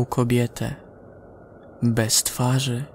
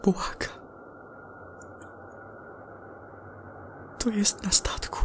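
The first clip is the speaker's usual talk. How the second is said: whispered, scared to be heard; hushed dread, something is on the ship; frightened astronaut whispering; terrified whisper; 8 semitones higher, 12 dB quieter than usual. Acted. Terrified astronaut's last report.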